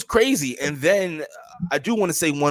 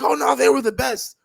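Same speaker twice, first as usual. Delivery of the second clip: higher mocking fan whine; 11 semitones higher, 5 dB louder than usual. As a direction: parody the devoted fans.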